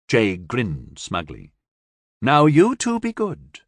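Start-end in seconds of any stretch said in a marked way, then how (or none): 2.2-3.6 a hint of a stern old woman; lightly stern warning; mildly stern old woman. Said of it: "Tracy said sternly".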